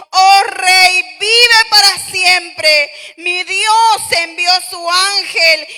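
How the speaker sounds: slow, loud, fervent reply; solemn proclamation. Acted. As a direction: declare it slowly to the king. Daniel answers the king.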